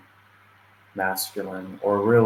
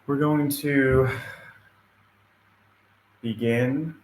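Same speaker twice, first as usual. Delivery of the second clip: guided meditation. Acted. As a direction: lead them gently through breathing, leaving space after each cue. Opens a guided meditation, breathing cues.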